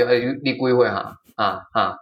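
lightly imitated talking-down to a youngster; a hint of an old man scolding a kid; condescending scolding. Retelling the father-in-law lecturing her on the phone, mildly condescending. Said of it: "用这种口气".

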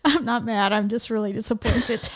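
softly disappointed mother; quiet disappointed sighing. Shown as a demonstration. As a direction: let the disappointment sink in. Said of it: "say it right now to me".

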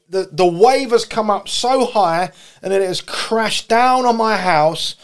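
dramatic sermon delivery; impassioned preaching. Acted. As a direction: preach the storm with rising urgency.

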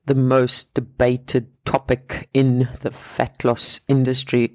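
slow, deliberate build-up for effect; mock dramatic. Host hyping the episode's topic to listeners, mock dramatic. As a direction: draw it out like a big reveal. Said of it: "I just wanted to sound dramatic there".

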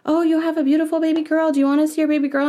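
high-pitched imitation of an over-sweet hospital worker; mock sing-song baby announcement; mock cooing staffer. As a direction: coo it at a new mother, put-on. Social worker presenting baby to patient.

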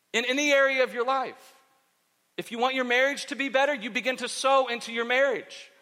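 emphatic, measured sermon delivery; preaching. Real, not acted. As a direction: drive each phrase home from the pulpit. Exhorts the congregation.

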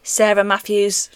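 slow robotic monotone. Acted. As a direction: say your name like a robot. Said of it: "That was my robot voice".

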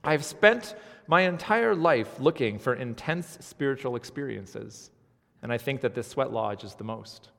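a hint of a slow, lofty professor; lightly voiced earnest professor. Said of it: "I'm gonna use my professor voice".

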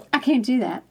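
retold refusal, falling at the close; settled refusal. Customer repeating her answer to the voice, settled refusal. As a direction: restate the protest with a falling end.

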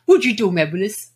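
light imitation of a sitcom catchphrase; mildly put-on catchphrase voice; Arnold. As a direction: quote the TV kid's puzzled line playfully. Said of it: "It was Arnold that said".

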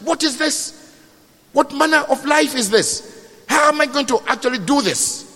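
high-pitched, despairing questions; exasperated lament. Acted. Parent despairing over failing children, exasperated lament. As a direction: wail the questions in mild disbelief. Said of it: "you just look and say".

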